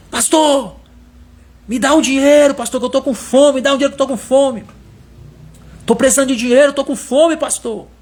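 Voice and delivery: a man at the church door demanding cash; demanding beggar. Retold or imitated. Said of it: "Ele chegou e disse assim".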